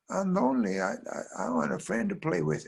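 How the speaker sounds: put-on high, halting child voice; lonely little girl. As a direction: plead in a small high voice. Lonely girl answers the bird.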